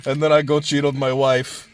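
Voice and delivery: badly faked Arnold voice; mock action-star Arnold accent; terrible Arnold impression. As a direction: do a lightly put-on Arnold. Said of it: "Arnold impression".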